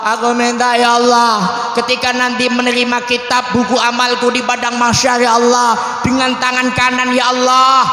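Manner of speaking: acted tearful plea to God; mock-weeping prayer; tearful praying child. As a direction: plead like a small child praying through tears. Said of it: "anak kecil ini wudu nangis".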